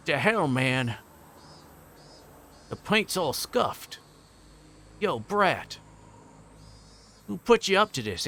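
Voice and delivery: high, aggressive put-on Cockney; Cockney thug. A narrator's reading. Thug seeing his scuffed paint, high angry Cockney accent. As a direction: demand answers in a mock Cockney accent. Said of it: "gonna say Cockney".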